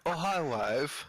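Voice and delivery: put-on very slow, stretched-out accented greeting; slow movie-line parody; Tommy Wiseau. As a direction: parody an oddly accented actor, dragging each word. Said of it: "if he looks like Tommy Wiseau".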